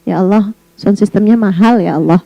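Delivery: mock plea.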